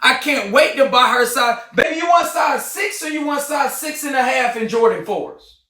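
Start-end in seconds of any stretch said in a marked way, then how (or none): 1.7-5.6 calling out to wife. Real, not acted. Calling to wife about shoes.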